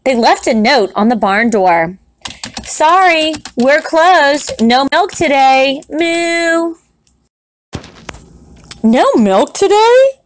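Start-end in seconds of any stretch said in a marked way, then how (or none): 2.6-6.7 lightly higher, cheeky cow voice reading the note; cows' note. Acted. Cows post a strike notice for the farmer, cheeky and high. 8.8-10.2 high, loud, disbelieving cry; shocked cry. Acted. Farmer Brown finds the barn closed, crying out in shock. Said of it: "cried Farmer Brown".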